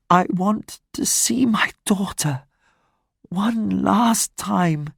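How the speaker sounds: high, faint, pleading dying mother; dying woman's plea. Acted. Dying Fantine begs the mayor to bring her daughter, high and faint. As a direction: beg weakly with the last breath.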